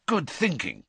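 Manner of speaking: relieved. Acted. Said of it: "his expression clearing".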